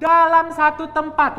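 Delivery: high, loud amazed echo; excited. Real, not acted. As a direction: echo it with wide-eyed delight. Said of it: "Wow, luar biasa banget ya".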